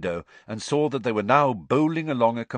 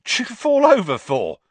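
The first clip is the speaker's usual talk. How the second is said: sniggering; 13 semitones higher, 10 dB louder than usual. Acted. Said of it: "sniggered Stan".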